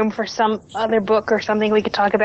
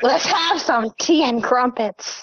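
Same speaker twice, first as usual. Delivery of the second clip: bad British accent; 3 semitones higher, slower than usual. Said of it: "his default British accent".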